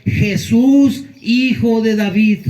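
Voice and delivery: preacher showing how the beggar cried out with all his strength; full-voiced cry. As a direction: call with all his voice and heart. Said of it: "con toda su voz".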